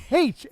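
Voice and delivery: H said as aitch; American H. Shown as a demonstration. Host mimicking how he himself says H. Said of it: "it's just funny how you say H".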